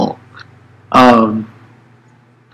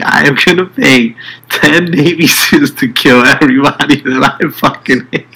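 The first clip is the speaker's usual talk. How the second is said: through gritted teeth; 4 semitones higher than usual. Retold or imitated. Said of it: "he's screaming this".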